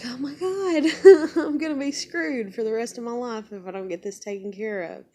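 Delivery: high, laughing wail of despair; half-laughing, half-crying alarm; mock-despairing laughing cry; laughing panic. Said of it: "And I'm like".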